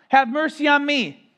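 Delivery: loud desperate plea; beggar's cry. Acted. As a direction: plead loudly like a desperate beggar. Beggar crying out to Messiah.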